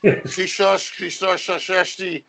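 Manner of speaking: put-on "Christos Anesti" mangled, with a slow, stumbling American accent; bad American accent. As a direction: butcher the Greek like an American trying hard. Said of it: "tries to say Christos Anesti".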